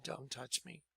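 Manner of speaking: hushed, low, barely audible; very calm. Retold or imitated. Newly saved man warding off Lou's touch, very calm and hushed. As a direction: repeat it calmly under your breath. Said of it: "very calmly just said".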